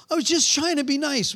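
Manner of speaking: high-pitched defensive plea; mock protest. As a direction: imitate a wife defending herself. Acts wife's protest at being scolded.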